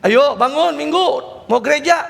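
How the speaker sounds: high, loud, slow call to get up; a mother calling up the stairs, drawn out; mother calling her sleepy kid to church, high and loud; parent calling child awake. Retold or imitated.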